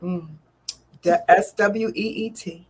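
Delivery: slow, spaced-out words, punched on day; savoring spelled-out announcement. Real, not acted. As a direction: spell it out with drawn-out relish. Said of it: "I don't know why I'm talking like this".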